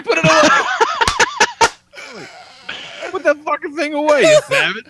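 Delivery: high, loud exasperated yell; retold scolding. Dad retelling scolding his giggling son, high mock-outraged yell. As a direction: shout it in comic outrage.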